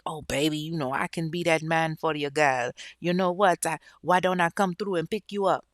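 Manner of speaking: put-on faint, amateur Jamaican accent; sucky Jamaican accent. Suitor offers to pick the woman up, half-hearted Jamaican accent. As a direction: lightly put on a Jamaican sweet-talker. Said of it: "Again, that's a sucky accent".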